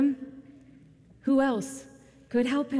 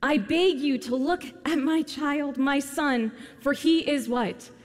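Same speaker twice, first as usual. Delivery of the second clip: raised, high, desperate plea for his son; pleading cry to the teacher; 3 semitones higher, slower than usual. Acted. Father begs Jesus to heal his only son, pleading. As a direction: beg like a father at the end of his rope. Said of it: "he cries out and says".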